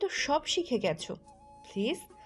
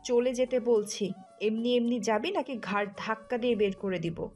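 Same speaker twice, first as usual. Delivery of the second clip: cold anger, pitched well down; angry threat; 4 dB louder than usual. Acted. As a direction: threaten them in a lowered voice. Enraged sister throwing Tuli out.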